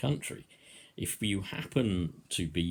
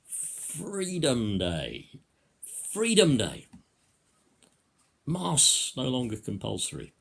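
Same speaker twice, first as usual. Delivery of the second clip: sarcastic; 4 semitones higher, 4 dB louder than usual. Shown as a demonstration. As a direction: announce it with sarcastic fanfare, easing off at the end. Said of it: "Do I sound a little sarcastic?".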